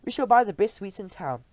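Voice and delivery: high, loud greedy chorus; eager witches. Acted. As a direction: promise eagerly. Coven answering.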